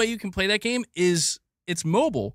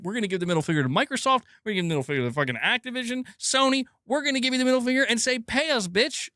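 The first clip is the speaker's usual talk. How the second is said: fast, cocky gloating rant; mock arrogant Bungie; 4 semitones higher, faster than usual. Mocking Bungie's arrogance toward Microsoft and Sony, fast cocky rant. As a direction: sneer it out like a smug studio. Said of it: "they were like".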